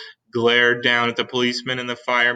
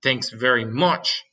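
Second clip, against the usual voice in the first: mild snap; slower than usual. Acted. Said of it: "snapped the head of the fire department".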